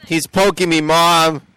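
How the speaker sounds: mock tattling kid. DJ pretends to tattle to his mom, playful kid complaint.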